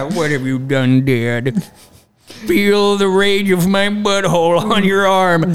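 slow mock-menacing dog voice; hammed-up wrathful hound, drawn out; talking basset hound.

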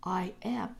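breathy whisper of I am. Shown as a demonstration. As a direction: whisper it like a secret. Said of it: "is when you say".

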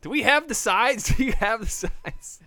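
surprised. Real, not acted. Confused loud question.

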